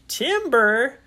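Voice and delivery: loud, high questioning repeat; puzzled echo. Acted. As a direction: repeat TIMBER as a startled question. Puzzled echo of the shouted warning.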